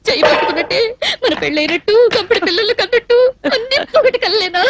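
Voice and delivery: wailing accusation through sobs; tearful wail. Acted. Jilted woman reproaching the man, wailing. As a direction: wail it, rising at the end. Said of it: "ఎందుకు ఏడుస్తున్నట్టు ఇప్పుడు నువ్వు".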